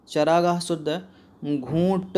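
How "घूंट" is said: "घूंट" stretched with a long nasal "oo"; careful pronunciation. Shown as a demonstration. Teacher models spelling for students, "घूंट" slowly stretched. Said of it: "होता है".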